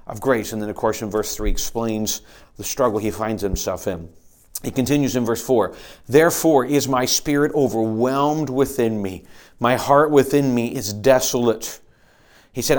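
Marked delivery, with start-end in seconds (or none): 6.1-11.8 slow, louder solemn reading; scripture reading. Acted. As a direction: read it as a heavy lament. Reads psalm aloud.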